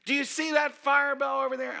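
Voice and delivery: loud, high preacher's shout; imitating a preacher who won't tone it down; fiery street preacher. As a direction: challenge him at full volume. Retold street preacher presses his question.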